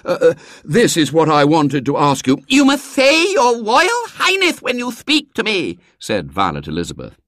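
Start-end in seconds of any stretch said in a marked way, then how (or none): 0.1-2.4 hesitant start, higher and louder; boy puffing out his question; slightly breathless. A narrator's reading. Boy trying to ask the small tyrant, rather breathlessly. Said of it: "rather breathlessly". 2.5-5.8 put-on very high, lisping child's voice; bossy small tyrant giving orders; imperious little girl. Small girl ordering her wheelbarrow coachman, imperious and lisping.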